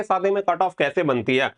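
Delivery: ordinary delivery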